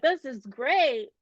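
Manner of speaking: imitated happy gushing; mock elation. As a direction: stretch it out with playful glee. Acting out the tipsy viewer's delight.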